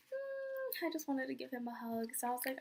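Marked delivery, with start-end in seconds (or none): 0.1-0.9 high-pitched little whine; a hammed-up, high whimper of sympathy; mock whimper. Fan breaking down over sad idol, mock whimpering.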